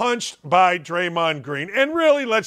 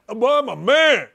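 higher-pitched blustering athlete; mock macho boast; 4 semitones higher than usual. Host mimics athletes claiming manhood, mock macho. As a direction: puff it up as a mocking boast.

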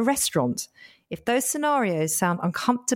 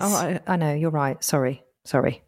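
apologizing too much; 4 semitones lower than usual. Acted. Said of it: "you've just apologised again".

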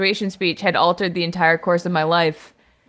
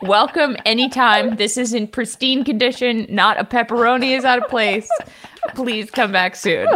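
grateful customer. Pretend. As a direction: overdo the gratitude to the delivery guy. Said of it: "I'd be like".

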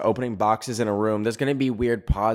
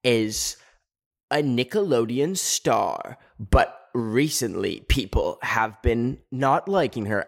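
mock documentary narrator; slower than usual. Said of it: "and it'd be like".

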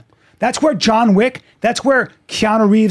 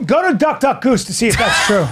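calling out. Real, not acted. Shouting a challenge at friend.

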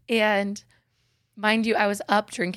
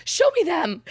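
rising whine, higher and higher; whiny high voice; 6 semitones higher, 5 dB louder, faster than usual. Retold or imitated. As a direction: plead like a spoiled kid. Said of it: "I can't go up any higher".

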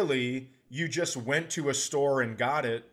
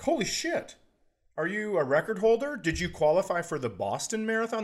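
much higher, impressed disbelief; mock amazement; 5 semitones higher than usual. Runners talking after the race, mock amazed. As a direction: gasp it out like a stunned fan. Hearing a fast marathon time.

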